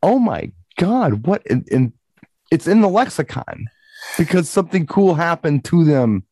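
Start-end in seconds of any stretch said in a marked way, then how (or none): 0.0-1.4 1 amazed reaction. Retold or imitated. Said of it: "it's like".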